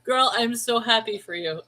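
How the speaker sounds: happy tears. Real, not acted. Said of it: "I should not be crying".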